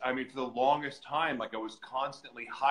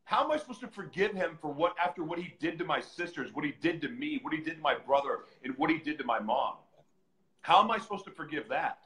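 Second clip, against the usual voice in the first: indignant protest; 3 semitones higher than usual. Retold or imitated. Protests command to forgive father.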